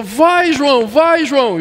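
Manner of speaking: high-pitched mock cheering-on; imitated urging. Pastors pressing João to rescue the man, imitated urgent calls. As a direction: urge him on, pitch well up. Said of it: "E o pessoal".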